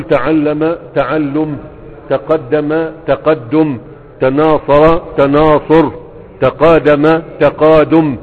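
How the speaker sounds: each pattern spelled out slowly; slow drill. Shown as a demonstration. Teacher to students, drilling verb patterns, slow and deliberate. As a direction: stretch every syllable for the class.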